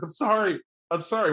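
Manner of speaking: pleading. Acted. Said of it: "now he's like".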